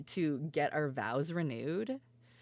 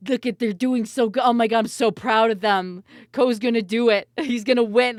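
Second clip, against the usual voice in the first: excited, loud, higher proud cheering; proud cheering parent; 6 semitones higher, 11 dB louder than usual. Retold or imitated. Streamer retelling cheering for Ko at TwitchCon, excited and loud. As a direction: gush over them like a proud parent. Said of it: "We're like".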